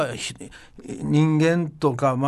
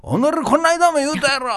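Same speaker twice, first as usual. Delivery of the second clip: mock angry scolding; 10 semitones higher than usual. Imagined leader scolding repeat offender.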